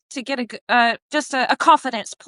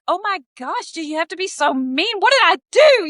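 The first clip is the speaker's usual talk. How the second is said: retold hurt protest; 7 semitones higher than usual. Retold upset reaction to being yelled at.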